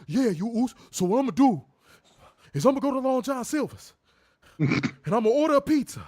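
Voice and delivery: loud, high mock Jey Uso blaccent; hammed-up parody of a put-on blaccent; exaggerated mock blaccent. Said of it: "it's really exaggerated".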